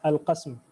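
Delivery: "Al-qasm" ending in a vowelless s straight into m; no fatha after the s in "Al-qasm"; sukun on the S. Shown as a demonstration. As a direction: finish "Al-qasm" on a tight -sm cluster, never -sam. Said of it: "This is with the sukun, not with the fatha".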